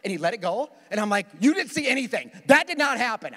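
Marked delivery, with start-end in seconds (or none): 1.4-3.3 higher, louder insistence; will it to be true; insistent inner plea. Retold or imitated. Driver mentally insisting to the cop that the red never happened. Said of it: "I didn't say that out loud".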